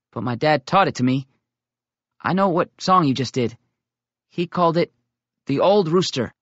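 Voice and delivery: put-on a kid proud of what he knows; eager young boy. Tommy tells the older boys about his dad's songs, eager.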